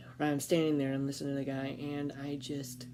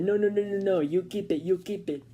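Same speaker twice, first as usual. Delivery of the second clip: insistent refusal; 3 semitones higher, 6 dB louder than usual. Retold or imitated. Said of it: "but he said".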